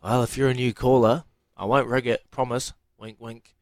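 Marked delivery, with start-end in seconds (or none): 3.0-3.5 whispered aside. Pretend. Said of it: "You're not supposed to say, "Wink, wink".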